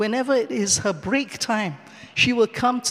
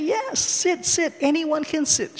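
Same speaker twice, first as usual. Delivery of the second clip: welcoming lady; 6 semitones higher, slower than usual. Retold or imitated. Friendly stranger inviting her to sit.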